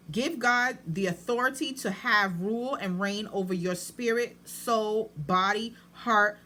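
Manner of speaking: deliberate, measured reading with space between phrases. Real, not acted. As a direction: read it slowly, phrase by phrase. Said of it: "let me read this slower so you can really grasp it".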